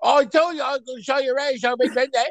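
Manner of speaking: fast, high, garbled Cockney cabbie; hammed-up Cockney at a gallop; severe Cockney. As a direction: rattle it off in thick Cockney, barely intelligible. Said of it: "I'm still not understanding what you're saying".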